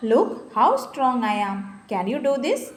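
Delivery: loud, slow boastful challenge; challenging bear. Acted. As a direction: boast and dare her as the bear. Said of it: "challenged the bear". (വെല്ലുവിളിക്കുന്ന കരടി)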